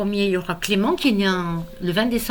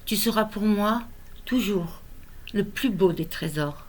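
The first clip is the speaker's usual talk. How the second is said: lyrical recital, line endings left to fall away; tender, measured poetry recitation; poem reading. Acted. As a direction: comfort a small child through verse, pausing between phrases. Recites consoling poem to grandson.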